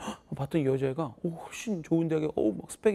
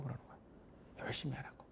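whisper; 3 semitones lower, 18 dB quieter than usual. Real, not acted. Teacher echoes student's request softly.

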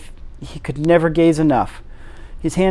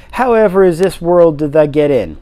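put-on curious old Yorkshireman; 4 dB louder than usual. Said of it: "overpowered by curiosity".

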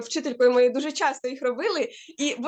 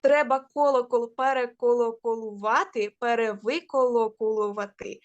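careful stress. Shown as a demonstration. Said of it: "наголос".

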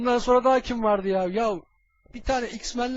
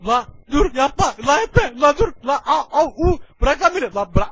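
panicked pleading; 3 semitones higher, 6 dB louder than usual. Acted. Being attacked, begging.

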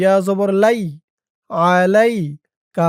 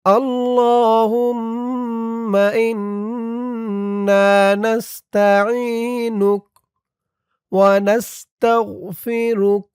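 slow, measured chanted recitation; Quranic-style recitation; 3 semitones higher, much slower than usual. Shown as a demonstration. Teacher reciting the dua line for the class, slow chant. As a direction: draw out each word like prayer. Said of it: "এভাবে।".

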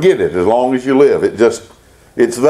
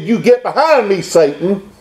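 blunt rebuke; 3 semitones higher than usual. Retold or imitated. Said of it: "speaking very bluntly".

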